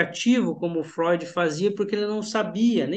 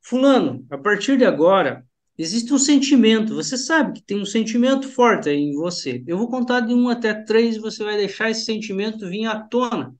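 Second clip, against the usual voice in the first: hypnotic suggestion; 3 dB louder than usual. Shown as a demonstration. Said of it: "Eu posso falar o seguinte".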